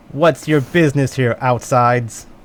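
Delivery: put-on small girl character voice. Voicing a small girl with a dagger who stops the travellers: voicing a small girl. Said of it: "you are intercepted by a small girl".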